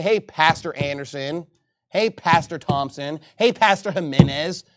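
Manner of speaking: respectful greeting. Shown as a demonstration. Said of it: "You ought to say".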